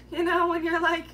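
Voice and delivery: high, loud, words broken by laughter; laughing while talking. Real, not acted. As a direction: talk through the giggles. Laughing mid-speech.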